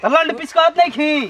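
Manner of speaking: लंड पीस lisped, leg blurred to लंड; lisping. Acted. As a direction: tutla speech on लंड पीस. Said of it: "उ तुतला बोलता रे".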